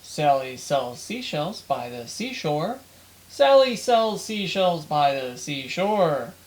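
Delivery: measured, deliberate tongue-twister recital; mic-test recitation. Shown as a demonstration. Speaker testing the camera's audio with a tongue twister, measured recitation. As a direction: recite it slowly in repeating rise-and-fall tunes.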